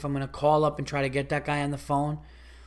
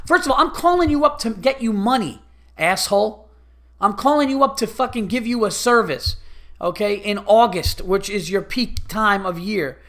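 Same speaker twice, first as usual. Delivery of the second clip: angry rant; 4 semitones higher than usual. Retold or imitated. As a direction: chew out the clerk for wasting your money. Ranting at rude rental clerk.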